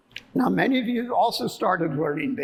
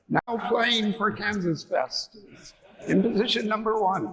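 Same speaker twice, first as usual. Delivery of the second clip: stadium announcer; 2 semitones higher than usual. Shown as a demonstration. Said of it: "like, I'm a stadium announcer".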